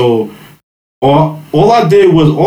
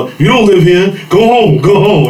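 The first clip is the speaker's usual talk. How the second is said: brushing off cop; 6 semitones higher than usual. Retold or imitated. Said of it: "I was like".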